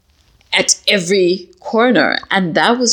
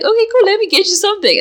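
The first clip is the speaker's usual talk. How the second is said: laughing quote; much faster than usual. Retold or imitated. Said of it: "And he was like".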